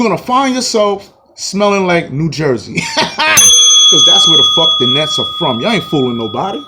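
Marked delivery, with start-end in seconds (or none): 3.0-5.6 laughing. Real, not acted. Mocking laugh.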